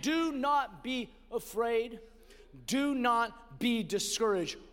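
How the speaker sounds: "Do not be" slow, each word weighted; a slow, deliberate divine command; emphatic statement. Acted. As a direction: spell out "Do not be" word by word, slowly. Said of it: "with an emphatic statement".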